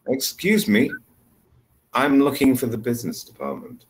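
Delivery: intonation example with a falling end; sentence read out. Shown as a demonstration. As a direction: read it out, "department" dropping at the end. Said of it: "I will read these sentences".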